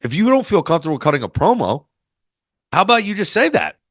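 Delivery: high, breezy imitation of the coach's advice; imitating Dusty. Coach advising a nervous wrestler, high imitated voice. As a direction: voice the old coach suggesting she admit her nerves. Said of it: "It was like".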